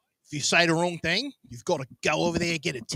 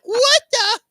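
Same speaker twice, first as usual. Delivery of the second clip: much higher, stunned disbelief; shocked; 5 dB louder, slower than usual. Retold or imitated. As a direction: gasp it out in outraged shock. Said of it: "She's like".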